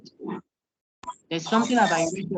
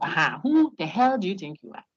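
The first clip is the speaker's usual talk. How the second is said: mock angry driver; 4 dB louder than usual. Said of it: "someone questions you and says".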